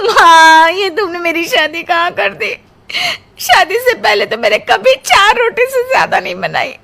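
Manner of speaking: a weepy wail to her mother; crying complaint. Acted. Bride crying to her mother about the in-laws, tearful wail. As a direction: whine through tears, comically.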